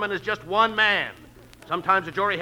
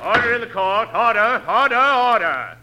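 calling for order; 4 semitones higher, 6 dB louder than usual. Acted. Judge bangs for order.

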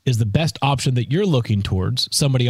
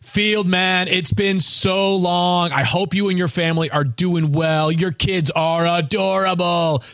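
higher, slow, overly sweet voice; fake friendly text; 6 semitones higher, slower than usual. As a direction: read it like a schmoozing old friend. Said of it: "one of these texts".

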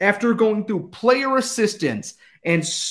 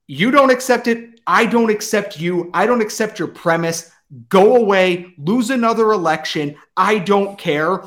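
angry. Real, not acted. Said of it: "I am very angry".

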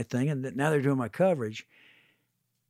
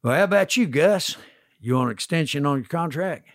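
put-on slight Georgian accent. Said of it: "in a s-, slight Georgian accent".

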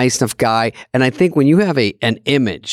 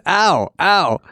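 mock whimper; 6 semitones higher than usual. Picturing being slapped, whimpering.

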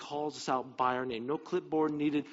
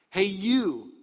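loud, higher hail; mock calling out; 5 semitones higher, 7 dB louder than usual. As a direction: call over a stranger loudly. Mock calling to Zacchaeus without name.

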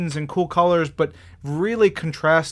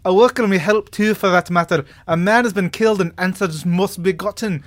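a hammed-up high Scottish lady, louder; Scottish accent; 4 semitones higher, 4 dB louder than usual. Miss McGregor answering Nick Fury, in a hammed-up Scottish accent. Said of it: "that's my really great Scottish accent".

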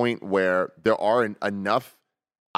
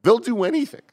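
excited; 10 semitones higher, 4 dB louder than usual. Real, not acted. Emphatic claim about publisher.

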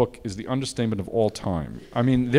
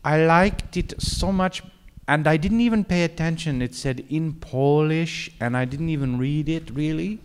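lightly voiced actress, higher and slow; a hint of Marion's complaint, slowed; quoting Marion; 5 semitones higher than usual. Director retelling the actress's complaint, higher and slowed. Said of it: "and she said".

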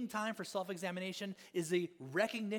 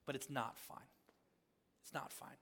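dropped to a whisper; 5 semitones lower, 9 dB quieter than usual. Real, not acted. Confessing it's not fine.

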